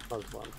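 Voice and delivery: "Muslim" as MUZ-lum; English-style "Muslim", short first vowel; English pronunciation. Shown as a demonstration. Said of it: "the English is".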